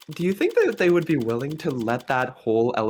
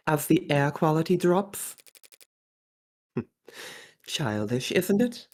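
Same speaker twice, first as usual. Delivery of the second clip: put-on posh Australian accent. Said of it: "I'm going for posh Australian".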